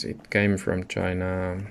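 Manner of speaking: ordinary talk, nothing marked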